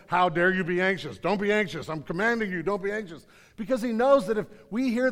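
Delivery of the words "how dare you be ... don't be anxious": judgmental scolding. Retold or imitated. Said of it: "with a judgmental arm going".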